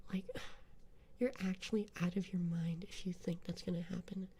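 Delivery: put-on snotty Valley Girl taunt, partly whispered; Valley Girl accent. Streamer taunting chat as a bratty Valley Girl. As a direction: sneer at them like a mean Valley Girl. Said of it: "put on a more, uh, Valley Girl Gato accent".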